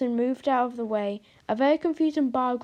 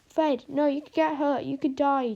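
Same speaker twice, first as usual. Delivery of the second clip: shouting; 3 semitones higher, 3 dB louder than usual. Acted. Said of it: "Toby shouted at him".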